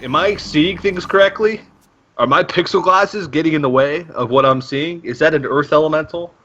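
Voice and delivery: high, disbelieving mock voice, lightly voiced; incredulous player voice. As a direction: play a player squinting in disbelief. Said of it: "Hoodie Ninja X is like".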